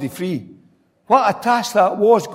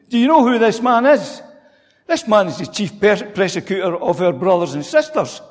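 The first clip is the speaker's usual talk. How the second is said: God's reply; 2 semitones higher than usual. Retold or imitated. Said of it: "Almost can hear God saying".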